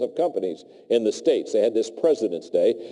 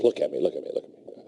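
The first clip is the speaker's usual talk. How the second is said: intense demand; 7 semitones lower, 4 dB quieter, faster than usual. Retold or imitated. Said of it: "he's very intense".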